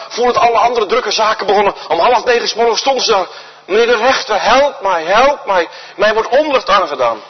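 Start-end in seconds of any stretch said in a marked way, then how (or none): 3.7-7.2 a widow begging the judge, voice raised a little; pleading widow. Acted. Widow begging the busy judge for justice, pleading. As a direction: plead with him, urgent and insistent.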